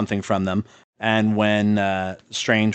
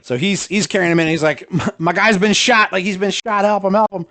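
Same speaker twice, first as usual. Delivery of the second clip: higher, urgent pleading for help; frantic plea; 8 semitones higher, 3 dB louder than usual. Retold or imitated. Wong carrying in shot Strange, frantic high plea. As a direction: beg them to help a shot friend.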